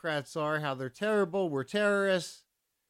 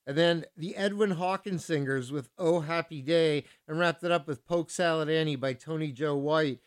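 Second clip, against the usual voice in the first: usual speaking voice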